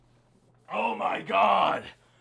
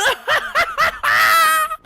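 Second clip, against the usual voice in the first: very high cackle of joy; elated high laugh; 4 dB louder than usual. Real, not acted. Fan overcome by the clinch, high elated laughing. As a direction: burst into shrieking laughter.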